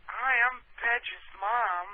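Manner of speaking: high, slow put-on woman's voice; high and drawn out, bad lady voice; friend's mom voice. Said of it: "you sound a little like Pedge's mom".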